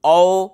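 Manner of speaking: औ held for two beats; long vowel. Shown as a demonstration. Teacher asks pupils to say it, long औ. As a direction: lengthen औ as a two-unit vowel. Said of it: "इसमें दो मात्रा का समय लगेगा".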